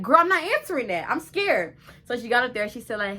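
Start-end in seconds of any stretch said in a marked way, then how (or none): 0.0-1.8 high, loud mock-panicked refusal; retold panic. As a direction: reenact a flustered, scared refusal in a raised voice. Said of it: "I panicked and I ignored it".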